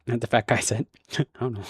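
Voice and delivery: real laugh through the words; laughing at slip. Real, not acted. Narrator laughing at his own misread tag. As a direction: chuckle it out. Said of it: "Wrong emphasis there".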